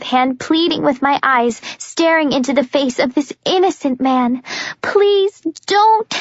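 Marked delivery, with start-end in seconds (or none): 4.8-6.2 high, breaking plea. Acted. Juliet begging Jenkins not to touch her, voice breaking. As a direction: beg with a cracking voice. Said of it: "My voice breaks".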